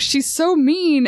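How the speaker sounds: high, drawn-out sulky complaint; mock mad. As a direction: whine about unfair treatment, hammed up. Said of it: "he's so mad".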